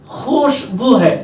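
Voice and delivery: खुशबू with a clear kh-sh, said slowly; teacher models खुशबू carefully with x and sh; correct khushbu. Shown as a demonstration. Teacher showing pupils correct खुशबू, slow careful. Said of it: "तो खुशबू नहीं है".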